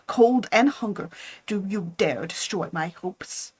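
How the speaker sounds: a hint of a bitter, aggrieved creature; wronged monster. Monster reproaches Frankenstein for breaking his promise, bitter. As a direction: push the grievance, building.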